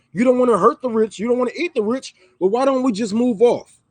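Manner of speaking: ordinary delivery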